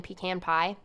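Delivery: lightly Southern "pecan", said pee-CAN; Southern-style pecan. Shown as a demonstration. Host naming a favorite pie, lightly Southern "pecan". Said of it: "adds a little Southern charm to it".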